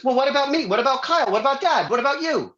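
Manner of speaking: mock jealous sibling; whiny demanding sister. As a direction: list every grievance like a jealous sibling. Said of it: "She goes".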